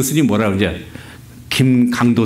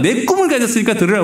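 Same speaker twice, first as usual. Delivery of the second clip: pompous proclaiming; 8 semitones higher, faster than usual. Retold or imitated. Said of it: "이런 식으로 막".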